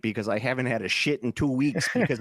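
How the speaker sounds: comic put-on Wisconsin accent; mock Wisconsin twang. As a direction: play an uptight Wisconsin local. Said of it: "Oh, the Wisconsin accent".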